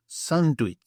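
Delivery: "Sandwich" said as one-word "sanduits"; Greek pronunciation. Shown as a demonstration. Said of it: "I will say it for you now".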